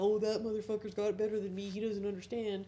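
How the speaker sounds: fast mock of someone sulking and envious; bitter mock whine. Mocking bitter viewers who envy some idiot, a quick put-on whine.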